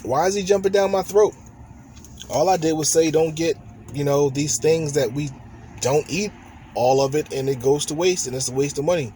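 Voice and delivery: mock-offended wife voice; imagined wife's complaint. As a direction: lightly act out her grievance. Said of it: "this is what I assumed she would say".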